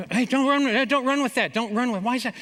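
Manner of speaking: high, loud mock warning from mom; mock mom shouting. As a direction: call out like a fretful mother.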